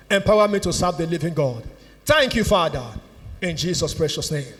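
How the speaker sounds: low-pitched prayer in short, separated phrases; led prayer. Real, not acted. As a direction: pray phrase by phrase so others can repeat. Leads repeat-after-me prayer.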